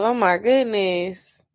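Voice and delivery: slow exasperated groan; fed up, drawn out; exasperated sigh. Real, not acted. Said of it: "how many questions does this thing have".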